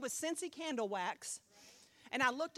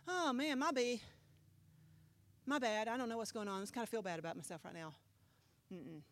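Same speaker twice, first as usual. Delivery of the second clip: mock casual shrug; 4 dB quieter, faster than usual. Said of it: "this wasn't like".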